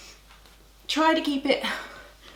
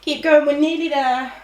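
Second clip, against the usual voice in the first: loud, coaxing push; encouraging; 6 dB louder than usual. Real, not acted. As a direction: urge them to the finish. Coach urging class on.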